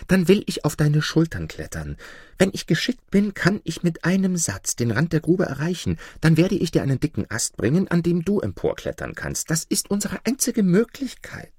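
lightly voiced crafty fox giving orders; sly fox. Fox telling the wolf how to stand, lightly sly. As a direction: instruct him smoothly.

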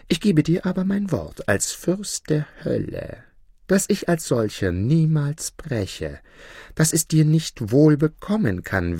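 high-pitched, put-out devil; peevish devil. Acted. Devil bound by the judge's oath, high peevish pleading. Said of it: "ein gar verdrießliches Gesicht".

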